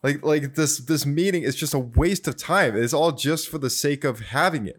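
mildly exasperated retelling of a complaint; a touch of fed-up protest, lightly acted; frustrated. Anakin calls the Council meeting pointless, mildly frustrated. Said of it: "he's just so frustrated".

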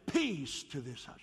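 slow, formal pronouncement; the wrong way to greet a house; stiff solemn blessing. Shown as a demonstration. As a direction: intone it stiffly like a ritual. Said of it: "You don't say it like that".

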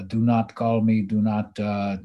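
put-on a light Greek accent, stern father; lightly imitated Greek accent. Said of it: "in his Greek accent".

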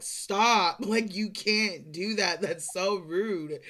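drawn-out, laughing reproach, loud on the first word; retold scolding. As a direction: scold slowly, half amused.

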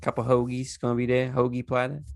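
light Delco accent imitation. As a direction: toss it off in mock Delco. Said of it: "with the accent".

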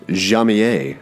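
Jamier said French-style as zhah-mee-AY; careful French pronunciation. Shown as a demonstration. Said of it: "I was gonna mess that up".

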